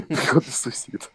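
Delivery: hushed conspiratorial whisper; whispering the neighbour's entrance. Real, not acted. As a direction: breathe it out secretly.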